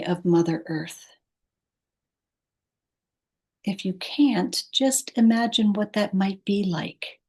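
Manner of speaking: calm, unhurried guidance with long pauses; guided meditation. Acted. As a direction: ease the listener toward sleep, pausing between phrases. Leads a meditation.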